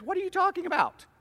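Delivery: high-pitched, incredulous question; acted bafflement. Accused husband answering his wife's call, acted high bafflement.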